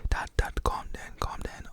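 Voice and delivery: urgently hushed "calm down"; punchy whispered protest; urgent whispered plea. Retold or imitated. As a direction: whisper as a kid trying to stop his dad. Son pleading with raging dad.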